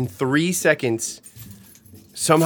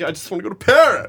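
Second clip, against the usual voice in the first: mocking dreamy traveler; 5 semitones higher, 4 dB louder, faster than usual. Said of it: "You're like".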